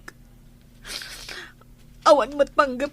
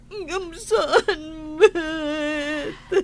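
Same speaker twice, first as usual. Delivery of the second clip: slow, softer broken sob; crying; 3 dB quieter, much slower than usual. Acted. Wife to her aunt, slow and crying. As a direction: let it fall apart in tears.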